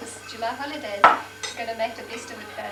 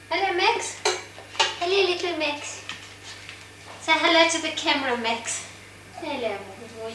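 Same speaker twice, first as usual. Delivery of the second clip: cheerful pet greeting, a bit louder; talking to the dog; 3 semitones higher, 4 dB louder than usual. Real, not acted.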